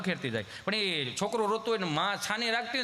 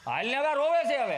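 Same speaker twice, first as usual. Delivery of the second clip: higher, louder, fed-up call to the wife; impatient husband; 6 semitones higher, 4 dB louder than usual. Retold or imitated. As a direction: snap at her to hurry up, the child is crying.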